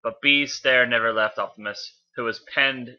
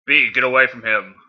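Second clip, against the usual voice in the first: raised, urgent call; 6 dB louder than usual. A narrator's reading. Optimus warning Bee away from Megatron, calling out. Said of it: "Optimus called".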